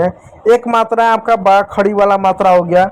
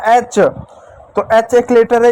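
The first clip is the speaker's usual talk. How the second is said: slow dictation; 2 semitones higher, much slower than usual. Shown as a demonstration. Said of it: "मैंने लिखा".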